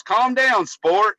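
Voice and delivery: high, mocking imitation of a condescending boss; patronizing boss. Boss talking down to the eighteen-year-old, mocking imitation. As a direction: talk down to the kid, high and loud. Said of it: "he goes".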